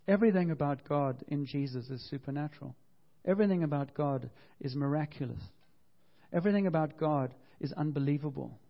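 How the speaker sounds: building sermon cadence; repeated preaching refrain. Acted. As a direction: preach each line with rising conviction.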